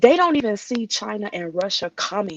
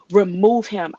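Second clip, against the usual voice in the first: pleading prayer; 5 dB louder than usual. Retold or imitated. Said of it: "I remember crying out to God saying".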